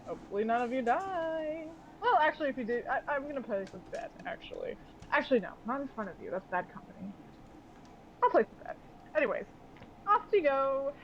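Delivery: lightly voiced captain with high, sing-song lifts; breezy mocking captain. Captain seeing off the crew he bets against, breezily mocking. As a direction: toss off a teasing farewell.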